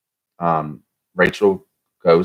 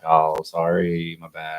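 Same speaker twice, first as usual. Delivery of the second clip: drawn-out mock apology; slower than usual. Host mimics Rachel shrugging off a mistake, drawn-out mock apology. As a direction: drag out a careless little apology.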